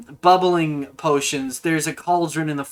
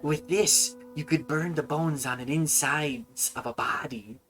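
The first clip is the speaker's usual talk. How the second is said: quiet sinister; 8 dB quieter than usual. Acted. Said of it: "she's like".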